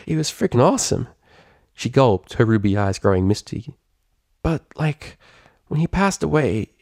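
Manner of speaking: lightly voiced, subdued tomboy; Rainbow Dash, wistful. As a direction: let the bravado drop as she remembers.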